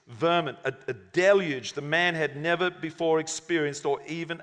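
dramatic storytelling read to a congregation; story narration. A narrator's reading. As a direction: read the parable aloud with dramatic phrasing. Reads a story aloud.

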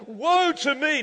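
loud, high, drawn-out lament; big preacher's wail, half laughing; acted cry of woe. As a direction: cry out slowly from the pulpit. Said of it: "I cried".

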